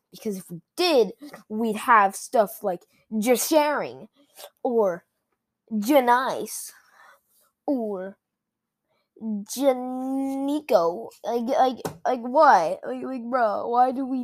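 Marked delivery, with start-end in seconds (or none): 3.2-4.1 "just sharing" as one word with a G stuck on the front; added G. Shown as a demonstration. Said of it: "that's why they don't have any more G's". 5.8-6.7 "Janice" said as "nice" with a sounded G in front; added G. Shown as a demonstration. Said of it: "that's why they don't have any more G's". 9.2-11.1 "Janico" with a sounded G and a long drawn-out N; added G. Shown as a demonstration. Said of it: "that's why they don't have any more G's".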